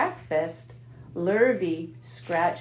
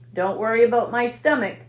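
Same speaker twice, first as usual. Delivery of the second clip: louder, sharp rat snarl; 3 semitones higher, 6 dB louder, faster than usual. Acted. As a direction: snap back at her. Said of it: "snarled Templeton".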